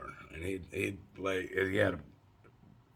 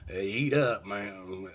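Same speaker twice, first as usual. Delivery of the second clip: loud call; 5 dB louder, slower than usual. Retold or imitated. Host calling him to breakfast.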